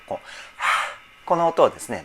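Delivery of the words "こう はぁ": an airy breath sound on はぁ, pushed out to show the hiss of air; breathy sigh demo. Shown as a demonstration. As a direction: let out an audible breath like a sigh. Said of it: "息の音、".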